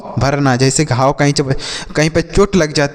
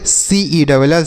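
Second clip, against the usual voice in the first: slow spelling out; slower than usual. Shown as a demonstration. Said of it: "इसे हम पढ़ेंगे सेल".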